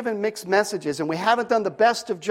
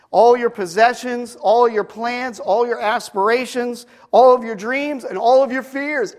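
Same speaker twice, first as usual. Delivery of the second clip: each ALL punched higher and louder; building list; 4 semitones higher, 3 dB louder than usual. Acted. Preacher urges the congregation to surrender, stressing ALL. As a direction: hammer every all in the list.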